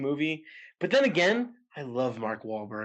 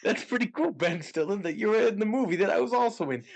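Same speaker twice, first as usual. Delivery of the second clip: Ben Stiller impression; 8 semitones higher than usual. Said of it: "let me do Ben Stiller".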